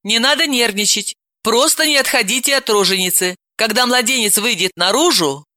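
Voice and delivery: calm him down; mildly soothing instructions; reassuring. Acted. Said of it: "Далила его успокоила".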